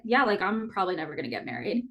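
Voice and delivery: casual, quick shrug of a line; unbothered retold thought, tossed off fast; matter-of-fact resignation. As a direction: say it offhand, no sadness in it. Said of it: "I didn't feel sad about it".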